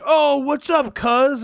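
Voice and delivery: high, loud, overly familiar greeting; mock buddy-buddy shout of cuz; friendly stranger. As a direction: hail him like a long-lost cousin. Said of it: "people to be like".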